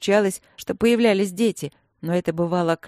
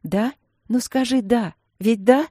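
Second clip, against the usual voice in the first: impatient; 5 semitones higher than usual. Acted. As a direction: press eagerly for a yes. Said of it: "нетерпеливо".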